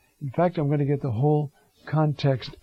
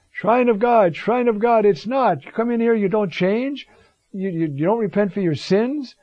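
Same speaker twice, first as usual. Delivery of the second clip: higher and louder, a denouncing prophet; prophet's rebuke; 7 semitones higher, 4 dB louder than usual. Retold or imitated. Prophet rebuking worshippers at the National Shrine, loud and higher. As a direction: thunder it at the crowd like a street prophet.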